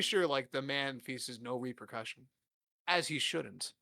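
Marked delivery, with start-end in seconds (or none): 2.9-3.7 joking. Pretend. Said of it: "he said jokingly".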